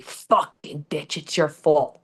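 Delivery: mimicking her fiance. Abusive fiance cursing her.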